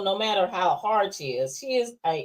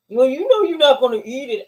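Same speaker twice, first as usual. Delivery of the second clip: lightly voiced mom; 4 semitones higher, 5 dB louder than usual. Mother scolds son over food.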